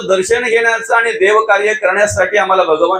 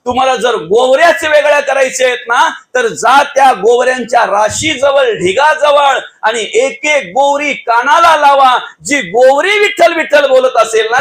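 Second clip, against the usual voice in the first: higher-pitched, mildly insistent telling-off; animated quoted challenge, pitched up; emphatic retort; 6 semitones higher than usual. Retold or imitated. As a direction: lay down the instructions with raised pitch. Acted reply of Janabai to Kabir.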